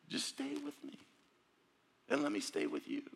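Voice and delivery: breathy, half-whispered invitation; hushed plea. Acted. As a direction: draw them close in a near whisper. God's voice pleading softly.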